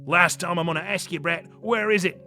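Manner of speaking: put-on accented soldier's threat, rising at the end; rude demand. Soldier losing patience with captive boy, rude demand. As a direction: demand it rudely, pushing harder at the end. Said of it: "the soldier asked rudely".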